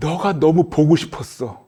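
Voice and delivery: tearful high-pitched voice. Retelling a drama scene, the mother answers her crying daughter: imitating a mother crying. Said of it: "울면서 하는 말이".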